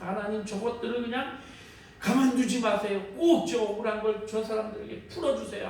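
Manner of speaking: pleading prayer. Retold or imitated. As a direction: beg God to punish them. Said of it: "하면서 막 그렇게 기도를 했었어요". (억울함에 간절히 비는 기도)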